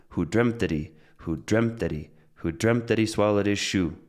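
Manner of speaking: "that he" run together lightly after stressed "dreamt"; linking and reductions. Shown as a demonstration. Teacher drills the line, "that he" and "his" linked and reduced. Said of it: "that's linking, that's reductions".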